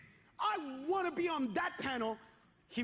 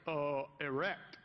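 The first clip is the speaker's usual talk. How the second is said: deadpan; 10 semitones lower, much slower than usual. Pretend. Deadpan answer to the interviewer.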